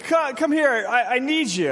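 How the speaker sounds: hammed-up parent shouting for the kid; mock yell upstairs. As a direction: keep calling the kid down, needy. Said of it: "So you yell up".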